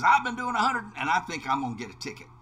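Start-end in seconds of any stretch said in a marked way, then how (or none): 0.0-0.8 loud. Retold or imitated. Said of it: "And he says".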